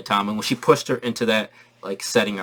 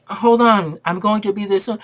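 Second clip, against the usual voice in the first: a lightly higher mom calling back; 9 semitones higher, 4 dB louder than usual. Retold or imitated. Wanda calling back to her kids, mildly voiced mom. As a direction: answer like a busy mom, a bit up. Mother answering kids in scene.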